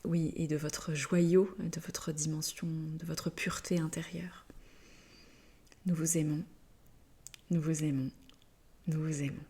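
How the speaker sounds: soft, hushed loving farewell; tender blessing. Real, not acted. Guides telling listeners they love them, tender. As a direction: let it sink softly, with gentle pauses.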